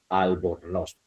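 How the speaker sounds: ALBORNOZ split slowly as al-bor-noz, softly; syllable by syllable. Shown as a demonstration. Teacher syllabifying for students, ALBORNOZ in separate syllables. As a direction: break ALBORNOZ into its three syllables. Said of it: "vamos a silabear la última palabra".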